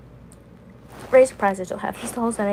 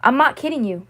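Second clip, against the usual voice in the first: higher, louder repeat; retold insistence; 4 semitones higher, 5 dB louder than usual. Friend insisting the band's breakup is real, emphatic. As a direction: insist harder, voicing the friend.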